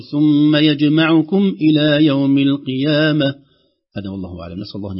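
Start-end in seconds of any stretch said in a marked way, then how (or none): 0.0-3.3 slow, loud ثم يجمعكم إلى يوم القيامة; slow final recitation. Shown as a demonstration. Teacher reciting the ending slowly. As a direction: draw out the end of the verse. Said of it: "آخر شيء نقول".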